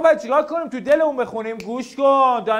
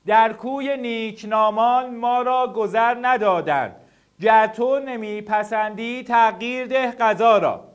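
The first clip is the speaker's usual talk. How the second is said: slow, measured recitation of a verse; poem read aloud; slower than usual. Shown as a demonstration. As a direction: read the couplet aloud slowly, line by line. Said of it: "اینو همه با صدای بلند". (شعرخوانی آرام و شمرده با صدای بلند)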